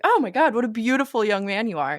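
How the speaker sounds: butter him up in a hurry; lightly voiced nervous Frederick; panicked flattery. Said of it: "He's like".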